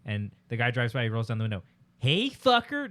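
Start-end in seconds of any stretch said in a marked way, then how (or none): 2.0-2.9 high, loud mock yell; loud taunt. Teen taunting a driver through the window, high mock yell. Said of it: "just yells like that really loud".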